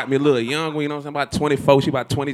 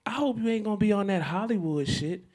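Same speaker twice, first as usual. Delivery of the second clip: put-on higher, softer girl's voice; girl on the radio; 4 semitones higher, 9 dB quieter than usual. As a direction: lightly imitate a girl in a radio spot. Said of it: "And a girl gets on and she says".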